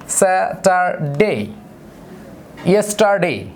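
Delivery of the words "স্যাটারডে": স্যাটারডে very slow, syllables drawn out. Shown as a demonstration. Teacher repeating স্যাটারডে slowly for students. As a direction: count out the beats of স্যাটারডে. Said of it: "যেমন".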